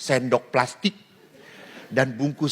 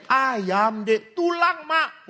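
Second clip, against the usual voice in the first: put-on child and mother; 9 semitones higher, much slower than usual. Replays mother and child exchange.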